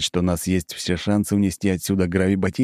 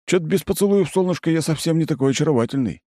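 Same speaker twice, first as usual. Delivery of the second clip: mocking double; 9 semitones higher, faster than usual. A narrator's reading. Narrator's double speaks, voiced.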